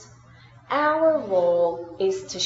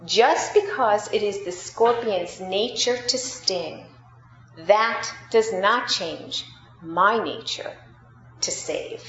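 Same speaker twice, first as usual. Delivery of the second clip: calm. Acted. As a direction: answer the stranger evenly, unhurried. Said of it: "the old man said very calmly".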